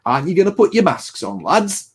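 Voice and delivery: mild imitation of an old man's hot take; old guy. Old guy at the barber's lecturing the lads, lightly imitated. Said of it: "the old guy will say".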